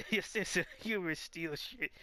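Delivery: amused delivery breaking out of a laugh; laugh, then push the line through. Real, not acted. Laughing while retaking coach's line.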